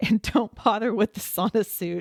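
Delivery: giggling, laughing through the words. Host giving listeners advice and apologizing for laughing, laughing while talking. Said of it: "I'm sorry, I'm laughing".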